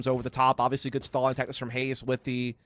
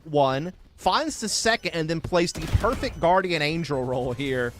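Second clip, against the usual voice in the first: emphatic, higher esports call; play-by-play; 4 semitones higher, slower than usual. Real, not acted. Caster relives Sam's retake for viewers, emphatic play-by-play. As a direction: punch the key moments of the play. Live play-by-play, recap of the round.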